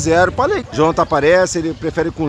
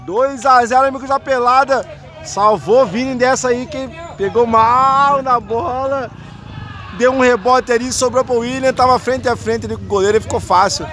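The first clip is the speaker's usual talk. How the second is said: higher, building goal call; excited goal call; 4 semitones higher than usual. Real, not acted. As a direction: lift the voice as the ball goes in. (narração de gol empolgada)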